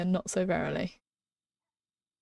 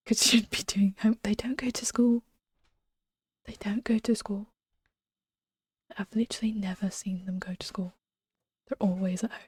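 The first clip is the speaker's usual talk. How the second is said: whispering. Real, not acted. Streamer whispering to chat about the crying girl, hushed. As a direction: whisper it so nobody outside hears. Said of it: "speaking low enough for you to hear".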